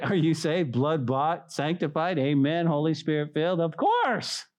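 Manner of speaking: brisker, unmocking church question; emphatic affirmation. Believers to one another, emphatically sure. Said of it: "now what do we say? Absolutely".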